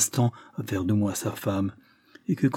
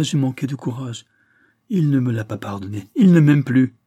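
raised, lamenting despair; 3 semitones higher, 6 dB louder than usual. Acted. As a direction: cry out in heartbroken regret. Lilia despairing, self-reproach. (désespoir plaintif, voix élevée)

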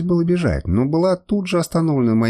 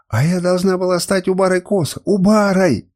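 high wail, louder on the last word; indignant cry; 6 semitones higher, 3 dB louder than usual. A narrator's reading. Woman laments her lost rank, high indignant cry. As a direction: build to an outraged cry on the title. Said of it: "кричала она".

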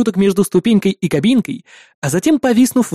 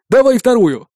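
calling out; 5 semitones higher than usual. A narrator's reading. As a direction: shout to partner above. Balnik calls up.

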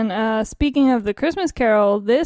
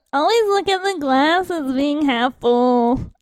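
poised pageant answer; 3 semitones higher than usual. Acted. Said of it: "Tell us, uh, contestant".

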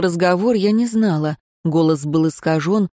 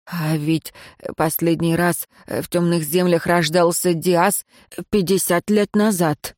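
nervous stumbling report; stammering servant. Acted. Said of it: "сбивающийся и заикающийся".

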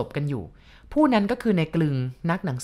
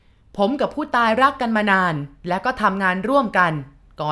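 shouting to the room; 4 semitones higher than usual. Acted. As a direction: stand up and shout your case to the mourners. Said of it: "ลุกขึ้นยืนตะโกน".

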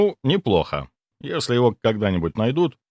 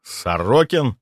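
surprised; 3 semitones higher, slower than usual. Acted. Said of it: "Удивился я".

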